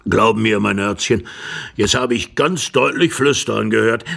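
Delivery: lightly voiced old man, emphatic; insistent old husband. Old husband tells wife he heard whispering, insistent.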